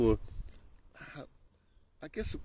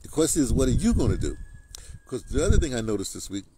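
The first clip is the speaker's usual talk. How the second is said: Trump impression; 5 dB louder than usual. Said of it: "that's my little Donald Trump thing".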